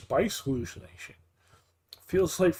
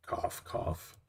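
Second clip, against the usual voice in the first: fake cough; 9 dB quieter than usual. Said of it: "spice stuck in my throat".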